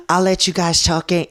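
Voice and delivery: attempted Australian accent; amateur Australian impression; bad Australian accent. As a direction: imitate an Australian woman, not quite managing it. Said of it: "I can't do an Australian accent".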